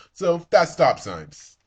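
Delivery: slow it right down to close the topic; slow emphatic wrap-up. Real, not acted. Vlogger closing the stop sign topic, slow and loud.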